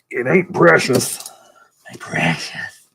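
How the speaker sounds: slow, whispered creature voice; creepy creature whisper. Acted. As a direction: whisper it like a covetous little creature. Creepy fantasy creature catchphrase.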